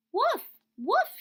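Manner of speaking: very high, loud mock barks; barking like a dog. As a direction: bark it out to scare them. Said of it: "he cried".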